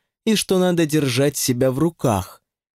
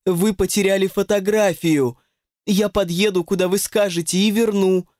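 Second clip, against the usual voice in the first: ringing voice; 6 semitones higher than usual. Acted. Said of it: "голос её зазвенел".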